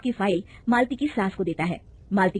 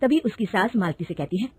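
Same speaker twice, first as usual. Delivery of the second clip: ordinary delivery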